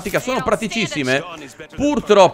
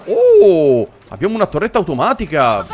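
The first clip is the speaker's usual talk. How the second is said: louder, excited "oh"; delighted surprise; 3 dB louder than usual. Real, not acted. Finding an automatic turret, delighted surprise. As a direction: react to a lucky find.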